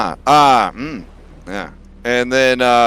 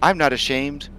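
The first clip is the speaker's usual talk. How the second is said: dragon voice; 2 semitones higher than usual. Acted. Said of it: "this is my dragon voice now".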